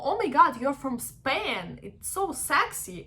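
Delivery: slow, swooping, impressed compliment; admiring gush. Retold or imitated. An appreciative listener meeting someone from Spain, gushing. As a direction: imitate a smitten admirer, drawing it out. Voices admiring people praising an accent.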